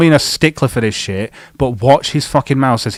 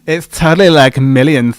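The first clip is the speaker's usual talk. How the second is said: mock Valley girl; 2 semitones higher, 4 dB louder than usual. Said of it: "Why did you sound like a Valley girl?".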